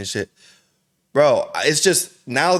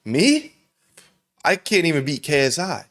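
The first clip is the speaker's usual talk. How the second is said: mock scared; 4 semitones higher than usual. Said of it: "he kind of looks scared".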